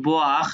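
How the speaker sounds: "Boire" with the vowels joined as "wa"; "wa" vowel sound. Shown as a demonstration. Teacher explaining letters that join into wa, "Boire" with a clear wa sound. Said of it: "ওয়াই মিলে ওয়া হয়".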